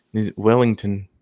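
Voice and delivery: warming up a New Zealand accent; tentative New Zealand accent. Shown as a demonstration. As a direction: try the place name in Kiwi. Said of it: "so I'll try to do it".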